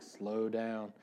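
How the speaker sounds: slow down, stretched out; mock note-to-self, words drawn out; drawn-out reminder. Slowed-down reminder to himself.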